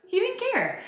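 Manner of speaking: high, laughing delivery. Real, not acted. Host fondly recalling partner's reaction to tarot reading, laughing.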